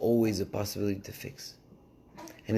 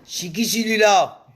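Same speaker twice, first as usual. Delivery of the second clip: loud, slow laughing outcry; wife shouting and laughing at her husband; laughing exclaim; 9 semitones higher, 8 dB louder, slower than usual. Acted. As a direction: burst out laughing as you ask who he is. She repeats, louder, laughing.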